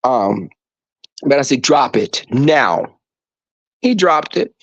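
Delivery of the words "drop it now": slow, stern, no-nonsense order; slow stern dog command; firm command. Retold or imitated. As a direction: lay down the law to the dog, word by word. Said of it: "because the tone".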